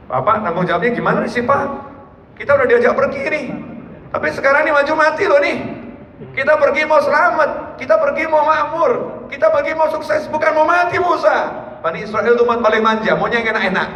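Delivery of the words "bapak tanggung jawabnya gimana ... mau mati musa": higher, rising whine of protest; whiny complaining follower. Acted. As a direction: demand answers from the prophet, panicky. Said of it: "Maka lapor pada Nabi Musa". (umat ngeyel protes kepada Musa dengan suara tinggi merengek)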